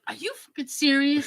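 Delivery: retold disbelieving shout; shocked outburst. Telling sister on the phone, shocked shout. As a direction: blurt it out in shock.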